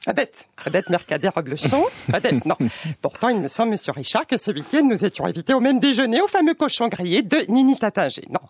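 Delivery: lightly voiced snooty French bourgeoise; a hint of a haughty Paris socialite; posh Parisian lady. Comic greeting the radio host as a snobbish French lady. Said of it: "vous trouvez peut-être que je fais mal l'accent français".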